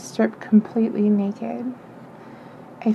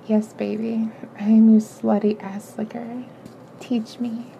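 breathless. Acted. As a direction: barely get the words out on the breath.

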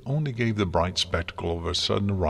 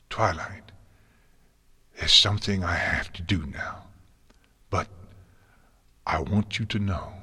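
tender farewell. Acted. Dying farewell to student.

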